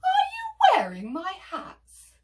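high, loud, theatrical indignation; outraged Hetty. Acted. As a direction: cry out in shocked accusation.

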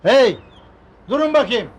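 loud, sharp hail; challenging shout. Acted. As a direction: shout to halt intruders. Resident stops intruding vendors.

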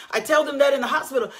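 quick fervent shout; preaching shout. Real, not acted. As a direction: fire it out to the congregation. Preaching at full force.

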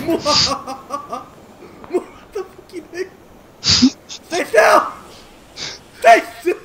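shouting. Real, not acted. Yelling at enemy.

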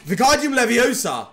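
spell incantation. Pretend. Casting the spell again.

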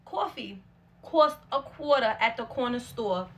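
careful slow New York accent. Shown as a demonstration. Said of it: "we gonna try it".

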